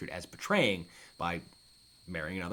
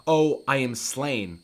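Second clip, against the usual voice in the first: slow, loud mock death announcement; Polonius; 3 semitones higher, 5 dB louder, slower than usual. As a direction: proclaim your own death theatrically. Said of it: "announce the fact that he is dead".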